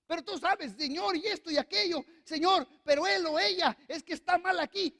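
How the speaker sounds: pleading complaint. Retold or imitated. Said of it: "le empiezo a decir a Dios".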